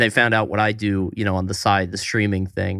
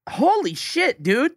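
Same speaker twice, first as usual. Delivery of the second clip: high-pitched, astonished reaction; real amazement; 13 semitones higher, slower than usual. Real, not acted. Co-host hears about a nosy kid, astonished. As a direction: react in disbelief, voice jumping up. Listener reacts to outrageous story.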